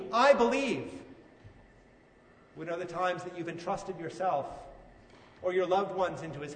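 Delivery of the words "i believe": higher, louder declaration of faith; bold, confident. Shown as a demonstration. A believer telling Jesus of their faith, confidently. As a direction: declare it clearly and boldly. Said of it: "maybe clearly, confidently, boldly".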